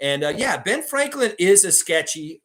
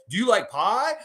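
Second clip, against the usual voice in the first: higher wrestler taunt, stress on "like"; The Rock; 6 semitones higher than usual. Retold or imitated. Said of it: "You know what The Rock would say".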